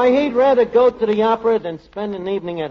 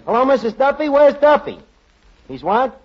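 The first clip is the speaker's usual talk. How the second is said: higher and louder, pressing for an answer; urgent phone call; 8 semitones higher, 4 dB louder than usual. Acted. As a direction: demand where Duffy is, worked up. Urgent call to Duffy's wife.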